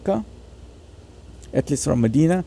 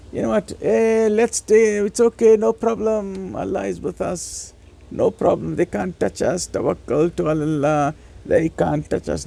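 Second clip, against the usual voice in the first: higher, lightly mocking careless voice; mock carefree dismissal; 4 semitones higher, slower than usual. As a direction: play the complacent guy waving off danger. Mocking careless believers' attitude.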